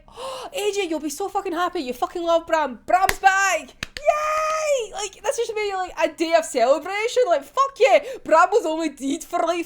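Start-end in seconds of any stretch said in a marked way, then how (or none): 0.1-4.9 mock cheer. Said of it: "And you think".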